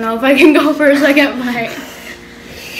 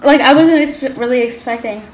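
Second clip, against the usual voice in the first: mouth burning from spicy food; 3 dB louder than usual. Real, not acted. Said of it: "but I'm literally crying".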